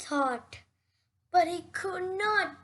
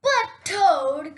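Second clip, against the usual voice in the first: cried out; 6 dB louder than usual. Acted. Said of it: "cried Frog".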